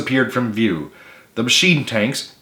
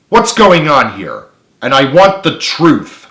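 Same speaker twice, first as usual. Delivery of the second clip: slow, loud stern demand; angry; 4 semitones higher, 5 dB louder than usual. A narrator's reading. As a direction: press them angrily for the truth. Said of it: "she said angrily".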